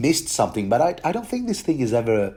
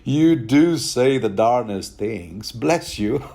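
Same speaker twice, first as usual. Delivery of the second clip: patronizing; slower than usual. Retold or imitated. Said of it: "patronize the hell out of".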